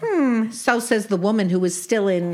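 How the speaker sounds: put-on old Brooklyn aunt with Yiddish lilt; yiddish accent. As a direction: play a wisecracking Jewish aunt. Sadie role continues.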